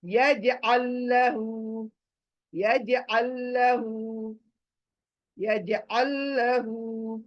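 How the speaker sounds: यजअल लहू recited slowly, the first लाम dropped and joined to the second; slow recitation. Shown as a demonstration. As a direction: spell out यजअल लहू slowly, no break between the words. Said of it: "ये लाम छोड़ देंगे".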